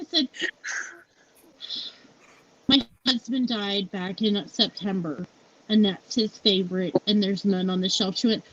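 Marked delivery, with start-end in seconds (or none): 2.7-8.2 low, subdued imitation of explaining through grief; retold grief. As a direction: drop the pitch right down, replaying a sorrowful explanation. Retelling tearful explanation to acquaintance.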